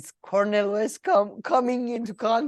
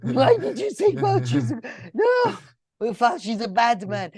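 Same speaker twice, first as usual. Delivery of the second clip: mock interviewer; 3 semitones higher than usual. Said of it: "and then this guy's like".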